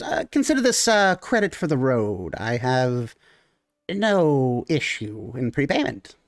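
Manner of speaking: generous little gnome making a show of it; gnome character voice. Acted.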